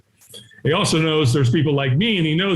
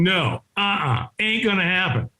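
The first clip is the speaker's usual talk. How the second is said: stubborn refusal; 3 semitones higher than usual. Retold or imitated. Reluctant man walking out among chanters, stubborn refusal. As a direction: refuse point-blank, taking your time.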